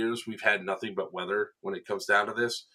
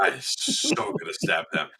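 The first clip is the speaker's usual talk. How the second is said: slow, breathy whisper of a plot; mock villain whisper; sneaky whisper; 5 semitones lower than usual. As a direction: whisper it like a stalking killer. Repeats line as sneaky whisper.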